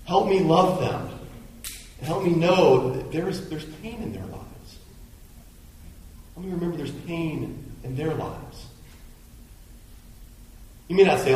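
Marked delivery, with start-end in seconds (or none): 0.0-8.6 quiet prayer. Retold or imitated. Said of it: "is replaced by".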